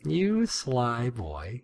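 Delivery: slow, soft, drawn-out tease; sly, lingering coo; playful teasing. Pretend. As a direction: savour each word in mock admiration. Teasing praise of the character.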